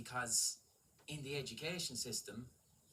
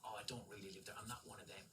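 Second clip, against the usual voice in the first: soft, lowered voice of a superior expat; mock snooty expat; 3 semitones lower, 5 dB quieter than usual. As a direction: sniff down at the locals quietly. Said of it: "Expat means".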